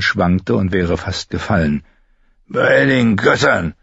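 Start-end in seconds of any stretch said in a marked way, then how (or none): 2.5-3.7 cursing. Acted. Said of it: "fluchte er".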